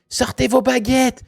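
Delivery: high, loud, slow call to arms; rallying call. Shown as a demonstration. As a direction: rouse the class to draw wands. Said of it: "je dis, Eh, les gars".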